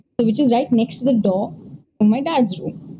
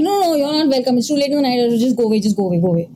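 rapid, insistent shooing away; urgent refusal; faster than usual. Retold or imitated. She sends a night visitor away, urgent refusal. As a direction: rattle it off, pitch starting raised and settling. Retold plea to unwanted visitor.

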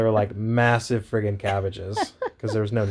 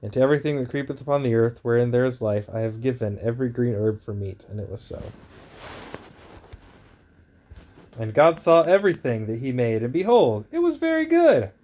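booming biblical narration. Acted. Reads Genesis aloud.

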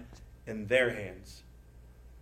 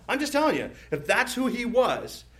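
playful emphasis; 8 semitones higher than usual. Real, not acted. Playful aside about David.

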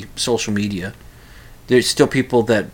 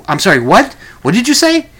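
confused what; 8 semitones higher, 7 dB louder than usual. Retold or imitated. Confused listener asking again.

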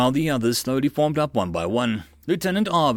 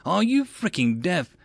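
high-pitched exasperated question; lightly voiced angry lieutenant; drill officer; 7 semitones higher than usual. A narrator's reading. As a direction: berate the recruits for not listening. Exasperated officer berates recruits.

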